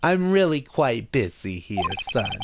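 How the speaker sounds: swooping, self-important Jewish mother. Acted. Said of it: "I'll definitely do that voice a little bit".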